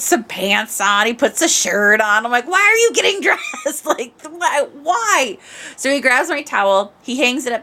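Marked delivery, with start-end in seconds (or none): 2.5-5.4 high, laughing plea; laughing exasperation. Retold or imitated. Watching her husband get dressed, laughing in exasperation.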